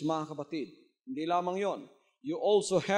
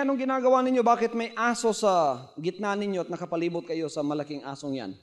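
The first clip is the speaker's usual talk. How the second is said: man's voice. Acted. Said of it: "Sabi niya".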